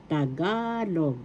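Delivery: Tagalog with a long, stressed "ga"; stress on second syllable. Shown as a demonstration. Teacher showing where Tagalog's accent falls, stress on second syllable. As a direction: draw out the middle of "Tagalog", slowly. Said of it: "Second syllable is the accent".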